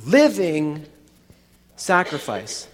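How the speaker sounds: the key word Living, set apart and stressed. Shown as a demonstration. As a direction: lean hard on Living and let sacrifice drop. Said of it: "the word I'm trying to stress".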